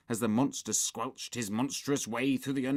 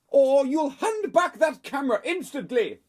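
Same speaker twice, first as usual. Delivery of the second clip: high, loud parental ultimatum; shouted threat; 9 dB louder than usual. A narrator's reading. Mum threatens to take the camera, shouting. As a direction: shout the warning firmly. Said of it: "shouted Mum".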